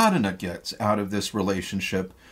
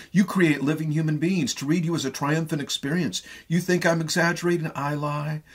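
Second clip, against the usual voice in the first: higher, quicker, gushing praise; gushing flattery; 5 semitones higher than usual. Acted. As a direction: pour flattery on him, building. Arkadina's flattery rises.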